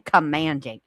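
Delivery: "commanding" as an emphatic correction; stress on commanding. Real, not acted. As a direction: come down firmly on COMMANDING. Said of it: "Not requesting".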